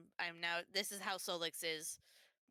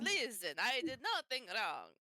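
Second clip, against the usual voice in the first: cartoony Transylvanian accent; 4 dB louder, slower than usual. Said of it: "you could just do a normal Transylvanian accent".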